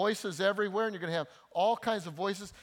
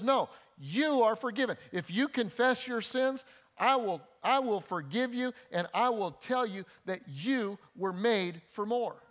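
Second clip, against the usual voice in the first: voice of more; 4 semitones higher than usual. Acted. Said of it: "the voice of more says".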